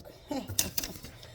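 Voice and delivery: soft, voiceless huff of laughter; small chuckle. Real, not acted. Laughing at her own joke about mom, small chuckle. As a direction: chuckle quietly under the breath.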